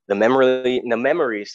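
choking mid-word; catching on the words, choking; choking on spit. Real, not acted. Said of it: "sorry, choking on myself".

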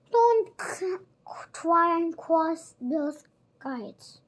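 high, loud, slow villain warning; high mock Fagin. Fagin warns Oliver not to cross Bill, high and loud. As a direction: warn him in a wheedling villain voice.

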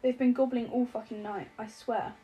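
hotly. Acted. Alex protesting hotly to Henry on the phone, mildly heated. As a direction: defend the turkeys with mild indignation. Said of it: "Alex says hotly".

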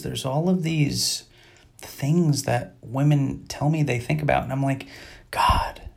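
mock-tender hush, as if wooing the ladies; soft ladies' segment.

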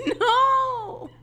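whispered laugh into high no; breathless laugh. Real, not acted. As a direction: crack up mid-intro. Intro breaks down laughing.

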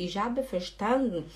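"verstanden" as fer-SHTAN-n, no vowel at the end; swallowed final E. Shown as a demonstration. Teacher repeating it for the YouTube audience, swallowed ending. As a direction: leave out the last E of "verstanden". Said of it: "O E não fala".

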